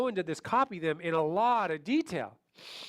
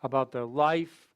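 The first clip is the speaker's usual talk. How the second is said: slow, lower, drawn-out words; really slow talk; 4 semitones lower, slower than usual. Shown as a demonstration. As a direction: drag every phrase out slowly. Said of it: "talking really slow".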